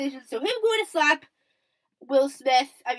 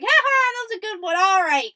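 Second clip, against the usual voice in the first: goofy imitation, pitched up; Chris Rock; 6 semitones higher, 5 dB louder than usual. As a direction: play a goofy comedian laughing off his own joke. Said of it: "with his goofy self".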